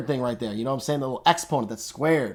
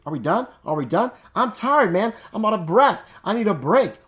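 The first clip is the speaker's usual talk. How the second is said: high, complaining student voice; whiny tired student; 6 semitones higher than usual. Retold or imitated. Mocking a student who wants the lesson over, whiny. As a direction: whine like a worn-out student begging for a break. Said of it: "Now you might be like".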